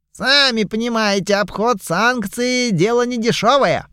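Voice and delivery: high, wheedling excuse; sly merchant voice. Acted. Goblin merchant explains the steep price to the lord, sly and high. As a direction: coax the buyer into the price.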